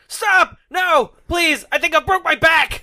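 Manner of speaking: high, loud panicked pleading; pleading scream. Retold or imitated. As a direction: beg for mercy in a high yell. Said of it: "he's like".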